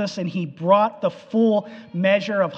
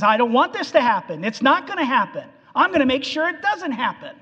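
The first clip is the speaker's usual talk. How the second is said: a touch of heated protest, fast and rising; fired up; 5 semitones higher, faster than usual. Retold or imitated. Peter protesting to Jesus, fast fired-up mock protest. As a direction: push back fast, building in pitch. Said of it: "He's pretty fired up".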